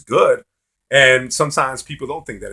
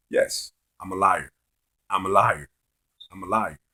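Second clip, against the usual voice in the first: retold smiling admission; 4 semitones lower, 4 dB quieter than usual. Guy keeps eye contact with the accusing friend, mild smiling admission. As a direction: calmly agree with a hint of a smile. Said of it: "I just kept saying that with a smile".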